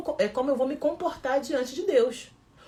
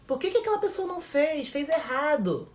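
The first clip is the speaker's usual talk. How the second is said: mock controlling critic; 5 semitones higher than usual. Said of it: "justificando o seu erro".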